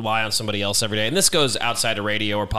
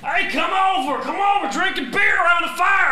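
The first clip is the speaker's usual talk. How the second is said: high-pitched hollered redneck imitation; drunk redneck neighbor. Neighbor yelling invitation to beer by the fire, mock redneck holler. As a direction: holler like a hammered neighbor across the street. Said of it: "you make him sound like a total redneck".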